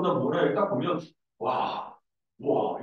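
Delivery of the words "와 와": whispered "와, 와" in awe; breathless wow. Retold or imitated. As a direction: breathe out "와, 와" stunned. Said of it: "이런 느낌이 딱 돼". (숨죽여 속삭이듯 "와, 와")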